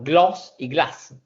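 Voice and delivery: gloss y glass drawn out slowly; slow contrast demo. Shown as a demonstration. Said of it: "Lo mismo que yo le decía".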